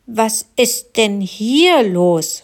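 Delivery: a slow, firm snail teacher checking in; concerned teacher. Acted. Frau Schnecke asking the quarreling kids. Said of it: "fragte sie".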